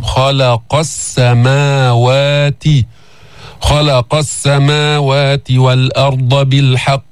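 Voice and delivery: "خلق" with a heavy kha and a light lam, slow. Shown as a demonstration. Teacher shows the heavy kha in "خلق", slow and deliberate. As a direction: thicken the kha of "خلق", keep the lam thin. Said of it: "نفخم الخاء ولا نفخم اللام".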